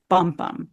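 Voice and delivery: first "bum" stressed, second "bum" light; trochee beat. Shown as a demonstration. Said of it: "It's stressed, unstressed".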